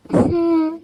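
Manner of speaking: plain reading voice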